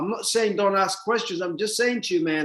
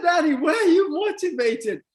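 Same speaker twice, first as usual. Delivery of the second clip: mocked question; 6 semitones higher than usual. Retells a question he finds absurd.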